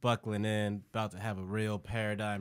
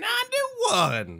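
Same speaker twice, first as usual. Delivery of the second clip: high, loud drawn-out shout; excited shout; 9 dB louder, much slower than usual. Acted. Co-host hyping the episode number, loud high shout. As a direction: belt the number out, stretched.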